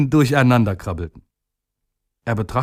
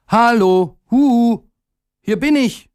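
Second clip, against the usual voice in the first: much higher, louder eager calling voice; little day calling out; 12 semitones higher, 4 dB louder than usual. A narrator's reading. Little day calling to the busy people, high eager voice. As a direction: call up high and loud to be noticed. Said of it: "rief er".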